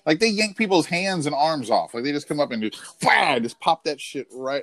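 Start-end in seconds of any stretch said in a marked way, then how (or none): 3.0-3.4 loud burst for a sudden grab; mock attack noise. Podcaster mimics a chimp tearing at people, mock attack noise. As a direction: imitate a sudden lunge with a noise.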